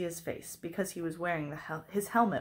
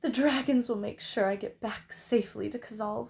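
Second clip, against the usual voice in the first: put-on brave martyr, raised pitch; noble and long-suffering; 4 semitones higher, 3 dB louder than usual. A narrator's reading. Princess urging the knight to leave her, long-suffering. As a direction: bear it nobly for show. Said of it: "trying to sound noble and long-suffering".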